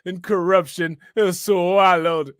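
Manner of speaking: slow, drawn-out "swallowed"; mock preacher reading. Streamer mimicking a reverend's quote, mock-solemn and slow. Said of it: "Why was he saying it like that?".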